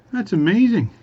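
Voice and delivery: high, loud acted astonishment; amazed farmer. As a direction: play a farmer loudly marvelling. Farmer amazed at talking cow.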